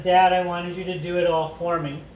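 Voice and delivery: a touch of retold rage in the line; mild imitated anger; mock rage. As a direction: read it as if Meg is raging, lightly. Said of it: "in rage".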